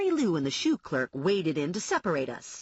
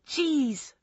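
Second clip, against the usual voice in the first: yelled; 7 semitones higher than usual. Acted. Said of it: "I yelled at her".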